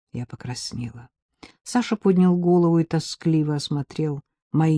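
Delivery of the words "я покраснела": ordinary delivery, nothing marked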